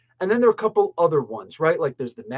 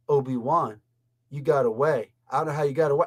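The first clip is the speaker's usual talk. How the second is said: imitating an actress's plain, uninvested delivery; mock blasé; 4 semitones lower than usual. Critic mimics an actress's line to Obi-Wan, mock blasé. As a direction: read it lower and blasé, as a mocking imitation. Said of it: "plain blasé talk".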